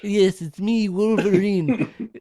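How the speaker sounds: high, loose take on a gruff hero; hammed-up Wolverine voice. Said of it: "That's not Wolverine's voice".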